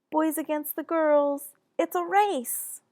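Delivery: high, loud challenge; yelling. Acted. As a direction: yell out a playful dare. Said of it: "Justin turns and yells".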